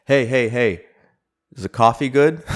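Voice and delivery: high, loud imitation of a stranger shouting; imitated shouting. Loudmouth stranger calls to me from ten feet away, imitated shouting. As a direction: mimic a loudmouth calling across the room. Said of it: "he's, like, shouting at me".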